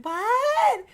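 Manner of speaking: high, loud clueless what; mimicking son. Son answers clueless from the bathroom, high and loud. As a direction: play the oblivious kid.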